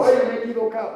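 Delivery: hammed-up "oh no" lament; mock regret. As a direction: whine it as a mistaken man would. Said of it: "No dijo".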